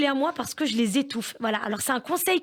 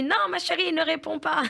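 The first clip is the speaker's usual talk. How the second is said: higher, quick don't-answer plea; mock annoyed husband; 4 semitones higher than usual. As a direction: cut her off like a flustered dad. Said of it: "Mon mari s'est énervé". (mari agacé imité, voix montée)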